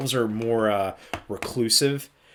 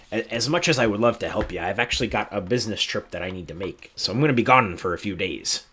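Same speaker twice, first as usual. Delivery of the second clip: Monty's voice; 5 semitones lower than usual. Acted. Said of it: "Monty walks up and he goes".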